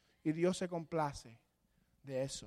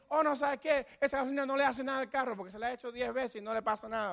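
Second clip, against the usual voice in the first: higher, fast know-it-all excuse; mock self-justifying; 5 semitones higher, faster than usual. The sinner defends his habit, fast and smug. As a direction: argue it never hurts. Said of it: "Ni tampoco decir".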